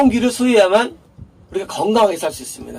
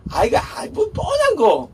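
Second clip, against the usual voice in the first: mock disappointed scoff; 13 semitones higher, slower than usual. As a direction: whine it like a bored listener. Mocking listeners' disappointment. (시시하다는 듯 높고 크게 외치며)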